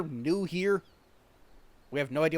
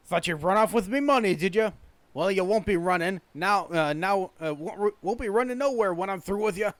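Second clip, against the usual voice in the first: raised, menacing Scottish shipwright voice; angry Scottish accent; 4 semitones higher, 4 dB louder than usual. Acted. Shipwright accuses Namazu of running off with money, angry Scottish accent. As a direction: threaten in a thick Scottish accent. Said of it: "very Scottish accent".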